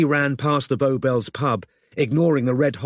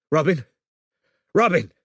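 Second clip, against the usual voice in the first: calling out; 6 semitones higher, 3 dB louder than usual. Acted. Shouting her name.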